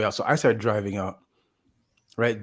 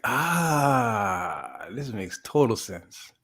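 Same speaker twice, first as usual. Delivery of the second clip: dawning realization; much slower than usual. Retold or imitated. Retold moment of realization.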